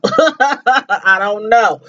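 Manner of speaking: slow, drawn-out with a laugh; slow incredulous chuckle; laughing disbelief. Real, not acted.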